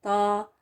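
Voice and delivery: त said thick and full-mouthed, the wrong way; heavy wrong t. Shown as a demonstration. Teacher demonstrates how not to say the letter, heavy. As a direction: fatten the त to show the mistake. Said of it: "इस तरह मोटा करके नहीं पढ़ना".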